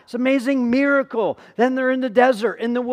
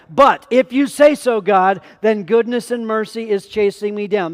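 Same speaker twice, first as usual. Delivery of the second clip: declared loudly; 3 dB louder than usual. Shown as a demonstration. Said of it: "That's what I want you to start saying".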